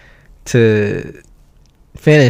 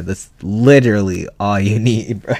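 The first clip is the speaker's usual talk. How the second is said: laughing through the words; breaking into a laugh mid-line; 2 semitones lower than usual. Real, not acted.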